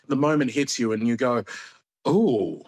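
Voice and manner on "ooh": slow, drawn-out retold relish; savouring. Comic recalling his first audience laugh, slow savouring. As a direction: draw it out, savouring the discovery.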